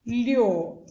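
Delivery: "lho" drawn out as a separate syllable. Shown as a demonstration. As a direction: stretch "lho" out on its own. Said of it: "você vai fazer assim".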